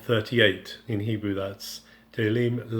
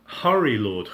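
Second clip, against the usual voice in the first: urgent cry; 4 dB louder than usual. Shown as a demonstration. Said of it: "It's a, it's a great word".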